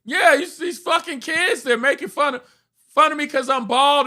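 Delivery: high-pitched, worked-up complaint; agitated Larry David. Retold or imitated. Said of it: "And Larry's like".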